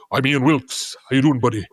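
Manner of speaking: put-on a lightly done Yorkshire accent, barely shifted; terrible Yorkshire accent impression. Imitating his mission friend's Yorkshire accent, lightly. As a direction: mimic a Yorkshire friend, half-hearted. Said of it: "I'm gonna do a terrible Ian Wilkes accent".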